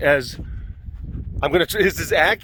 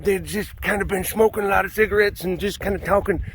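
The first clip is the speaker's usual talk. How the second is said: raspy smoker voice; 4 semitones higher than usual. Retold or imitated. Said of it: "that's kinda how her voice was".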